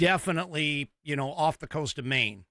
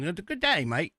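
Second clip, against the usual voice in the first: higher-pitched, hammed-up Aussie greeting; bad Australian accent; 4 semitones higher than usual. Host trying out a greeting for Australian listeners, bad Australian accent. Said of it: "thing with accents. I, I like to try 'em out".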